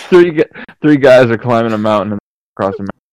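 hurried, stumbling through laughter; flustered rushed restart; rushed, fumbled take. Real, not acted. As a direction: race through it while still giggling. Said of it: "redo this".

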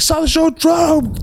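high, squealed call; hammed-up starstruck holler; excited fan gushing. Fan telling the bassist about the show, squealing with excitement.

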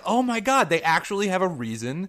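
excited, high and loud retold disbelief; amazed reaction. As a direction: exclaim it like a thrilling discovery, high and loud. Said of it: "I was like".

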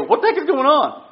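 high, loud exasperated dad; father breaking up a fight, shouting; mock dad yell. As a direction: bellow it like a fed-up father. Dad yelling at fighting kids.

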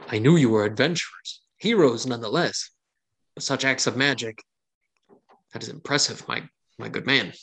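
mildly grave, measured hero-worship; a touch of solemn awe, short phrases; very serious tone. Acted. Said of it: "takes on a very serious tone".

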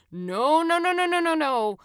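rapid string of high, loud noes; urgent de-escalation. A narrator's reading. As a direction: jump in loudly to stop the fight. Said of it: "tried to de-escalate the situation".

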